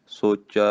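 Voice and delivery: ਸੋਚੈ said then held with a short pause after it; ਸੋਚੈ followed by a small break; pause after word. Shown as a demonstration. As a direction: stop briefly after ਸੋਚੈ. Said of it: "ਇੱਥੇ ਥੋੜ੍ਹਾ ਜਿਹਾ ਠਹਿਰਾਓ ਦੇਣਾ".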